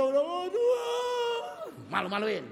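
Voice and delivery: high, loud groan of shame; exasperated shout. Real, not acted. Preacher scolds the congregation, high and loud.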